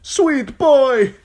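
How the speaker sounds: high, full-voiced drawn call. A narrator's reading. Jaqen calling Arya from the burning wagon, high shout. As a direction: holler to get someone's attention. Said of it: "called Jaqen H'ghar".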